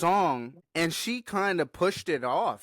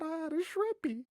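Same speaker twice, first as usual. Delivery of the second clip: mocking quote; 9 semitones higher, 7 dB quieter than usual. Mocking the girl's insult.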